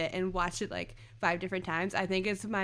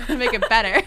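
laughing; 3 semitones higher, 11 dB louder, much faster than usual. Real, not acted. Laughing while repeating the quote.

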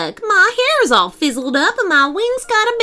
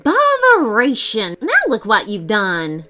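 exasperated fairy; 3 dB louder than usual. Acted. Fairy scolding Devon, loud and exasperated. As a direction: blow up in annoyance.

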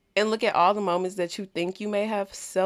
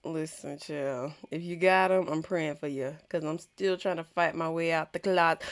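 put-on Jamaican accent; 3 semitones lower, 3 dB quieter than usual. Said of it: "with my Jamaican accent".

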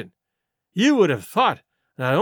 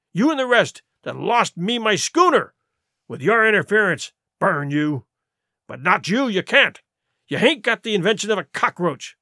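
scornful rebuke. Acted. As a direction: tear into the crew. Silver berates George.

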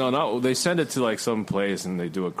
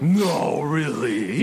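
sarcastic surprise; 6 semitones higher, 6 dB louder, much slower than usual. Acted. Sarcastic reply to obvious point.

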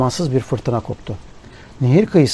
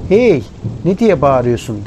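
rough shout; 2 semitones higher, 4 dB louder than usual. Acted. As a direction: bark the question at him, startled and annoyed. Strangers yell at waking man. (sert ve yüksek sesle bağırarak)

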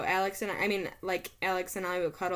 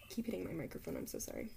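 yawning; 3 semitones lower, 12 dB quieter, faster than usual. Real, not acted. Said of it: "I keep yawning".

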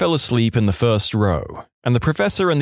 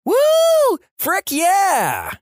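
mock scream; much slower than usual. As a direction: whoop it out at the top of your lungs. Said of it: "screamed ... at the top of her lungs".

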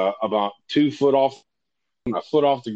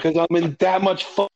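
raised pitch, exasperated retort; retold exasperation, pitched up; flustered; 5 semitones higher than usual. Patient answering the urgent care guy, flustered. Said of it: "getting a little more flustered".

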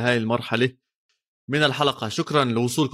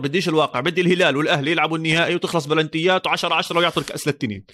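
insistent; 5 semitones higher, faster than usual. Real, not acted. Insisting on dream final.

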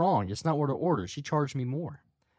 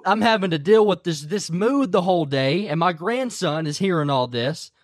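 mock angry rant; 4 semitones higher, 5 dB louder than usual. Retold outburst of red-faced grandfather.

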